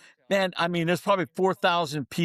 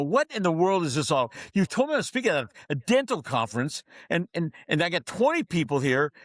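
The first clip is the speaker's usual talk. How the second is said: retold indignation; 2 semitones higher than usual. Speaker retells phoning his wife about the small crowd, mildly indignant. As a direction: act out griping at your wife, lightly heated. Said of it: "I am so mad".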